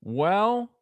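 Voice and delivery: high, drawn-out hesitant Well; imitating Kasich. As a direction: mimic a politician stalling before answering. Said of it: "and he would be like".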